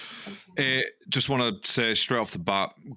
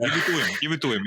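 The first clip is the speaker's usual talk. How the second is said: put-on Argentine accent; 5 semitones higher, faster than usual. Podcaster redoing Enzo's line in a light Argentine accent. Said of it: "In the accent, in the accent".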